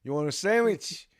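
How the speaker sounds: lightly voiced New York deli guy; New York accent. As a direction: rattle off the order with a hint of New York. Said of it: "the guy at the sandwich shop".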